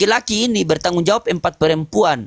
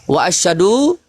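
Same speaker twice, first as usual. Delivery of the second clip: recited shahada; slower than usual. Shown as a demonstration. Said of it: "Kalau bersyahadat itu".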